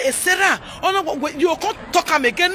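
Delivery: "Eh, Sarah" then a muddled break-off; mock someone fumbling after "Eh, Sarah"; wrong Bini phrasing. Shown as a demonstration. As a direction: lose the words after "Eh, Sarah". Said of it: "Don't say".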